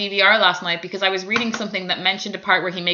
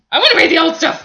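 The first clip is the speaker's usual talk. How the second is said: louder, higher whiny plea; mock whiny fan; 6 semitones higher, 5 dB louder than usual. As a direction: whine like a disappointed old fan. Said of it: "I'm like".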